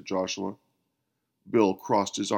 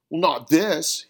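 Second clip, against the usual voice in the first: firm conclusion; 6 semitones higher, 5 dB louder than usual. A narrator's reading. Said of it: "he concluded".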